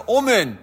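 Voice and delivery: اومن said "omen", with an o in place of the a; wrong first vowel, "omen" for Amen; mispronounced Amen. Shown as a demonstration. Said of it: "آمنا به اشتباه تلفظ بکنه".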